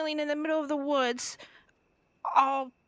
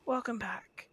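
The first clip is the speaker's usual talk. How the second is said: whispering; 4 semitones lower, 6 dB quieter, slower than usual. Real, not acted. Whispered reply.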